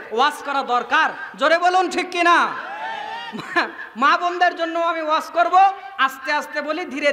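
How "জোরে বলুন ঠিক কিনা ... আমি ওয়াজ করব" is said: rousing the crowd. Real, not acted. Preacher calling on the crowd to shout back, rousing.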